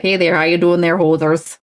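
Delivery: mock Canadian hoser greeting; Canadian accent. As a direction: lay on a playful Canadian accent. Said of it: "the Canadian accent's so romantic".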